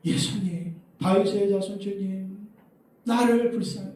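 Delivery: high, drawn-out mock cry for mercy; half-voiced shout, pitched high; imitated crying out. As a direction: act out a woman calling after Jesus. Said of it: "여자가 소리소리를 질러대는지".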